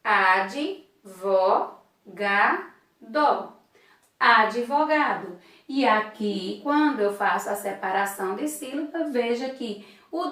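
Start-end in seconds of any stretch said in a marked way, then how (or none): 0.0-5.4 Ad, vo, ga, do said apart, then Advogado whole; syllable by syllable. Shown as a demonstration. Teacher counting the syllables of advogado aloud. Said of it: "eu tenho quatro sílabas".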